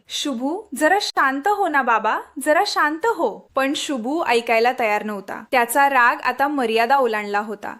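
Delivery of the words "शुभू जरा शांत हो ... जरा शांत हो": soothing. A narrator's reading. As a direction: settle an angry young man gently. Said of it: "शांत करण्याचा प्रयत्न".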